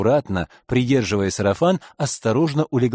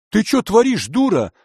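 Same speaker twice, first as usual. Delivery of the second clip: ошарашенный крик; 10 semitones higher, 4 dB louder than usual. Acted. Грабитель после пощёчины.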